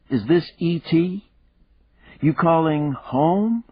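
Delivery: put-on high, bright child voice, teasing; little girl voice. A narrator's reading. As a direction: play a cheeky young daughter. Narrator voices young daughter.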